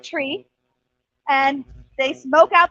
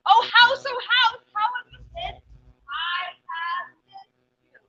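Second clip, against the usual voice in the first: sing-song greeting; 5 semitones higher, 4 dB quieter, slower than usual. Acted. Rabbit repeats call to house.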